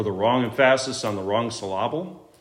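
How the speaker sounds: "emphasis" as em-FASS-is, "syllable" as suh-LAH-ble; misplaced stress. Shown as a demonstration. Preacher explains teacher's joke, stressing em-FASS-is and suh-LAH-ble. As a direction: hit the wrong syllable in "emphasis" and "syllable". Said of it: "See what he did there?".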